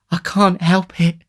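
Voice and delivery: high, slow lady's plaint; sighing lady. A narrator's reading. Matron answers the beadle between sighs, plaintive. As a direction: lament it slowly in a high voice.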